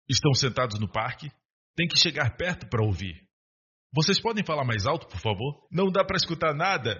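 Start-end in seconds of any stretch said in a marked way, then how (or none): 3.9-6.9 acted bystander complaint. Bystander complaining to whispering lovers.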